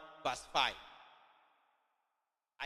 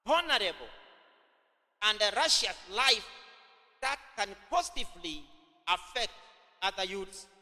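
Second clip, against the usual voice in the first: emphatic repeat; 4 semitones higher than usual. Shown as a demonstration. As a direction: repeat the notes again, pitched up and projected. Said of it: "Acha nirudie tena".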